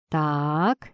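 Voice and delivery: ordinary delivery, nothing marked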